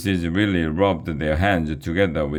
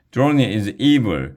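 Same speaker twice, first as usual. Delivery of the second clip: higher, louder cry; alarmed shout; 5 semitones higher, 5 dB louder than usual. Acted. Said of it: "shouted Alexia".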